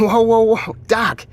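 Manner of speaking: laughing, loud startled whoa. Acted. Officer cutting off the doctor's tirade with loud laughing whoas. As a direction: rein him in with a surprised laugh.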